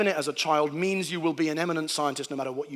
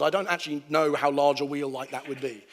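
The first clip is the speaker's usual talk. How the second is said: ordinary talk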